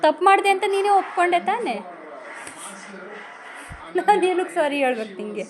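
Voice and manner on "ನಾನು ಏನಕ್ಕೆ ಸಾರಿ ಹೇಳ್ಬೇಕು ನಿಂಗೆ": tearful protest through sobs; crying. Real, not acted. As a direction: cry the words out. Child crying during scolding.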